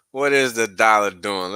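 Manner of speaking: announcing the chart check to viewers. Pretend. Answers own goofy question louder.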